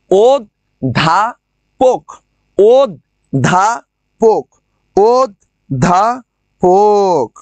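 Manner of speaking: অধ্যাপক said slowly as ওদ্দাপক; slow syllable-by-syllable অধ্যাপক with doubled দ; doubled d demo. Shown as a demonstration. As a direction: drag out অধ্যাপক with a held double দ. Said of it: "দয় ধ হয়েছে".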